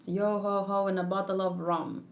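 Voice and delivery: put-on trying out a light pirate accent; half-hearted pirate accent, slowing at the end. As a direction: roll out a tentative pirate accent. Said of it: "How's a pirate accent?".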